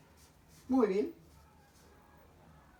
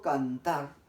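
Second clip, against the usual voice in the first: "cantar" said loudly, its last syllable "tar" given more force; stress on second syllable; 5 dB louder than usual. Shown as a demonstration. Teacher shows pupils which syllable is stronger, stressing "tar" in "cantar". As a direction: punch the "tar" in "cantar", keep "can" lighter. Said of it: "cuál de las sílabas se ha pronunciado con mayor fuerza".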